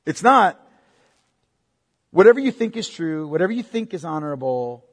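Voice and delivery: put-on light Valley girl lilt on whatever; a hint of a Valley girl, breezy. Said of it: "I sound like a Valley girl there".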